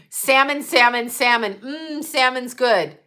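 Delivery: imitating grown son. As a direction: tease his later love of salmon. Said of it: "And then he would go".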